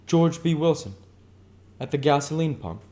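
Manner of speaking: high, loud mock caption; mocking invented title. Tom mocks Myrtle's husband, high and loud. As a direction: sneer out the picture title. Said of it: "as he invented".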